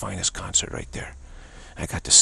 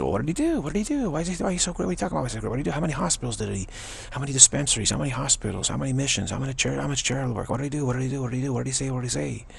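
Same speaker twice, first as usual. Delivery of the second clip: badgering skeptic; 5 semitones higher, faster than usual. Doubters demanding to know a guru's good works, badgering. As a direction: fire off demanding questions in a raised pitch.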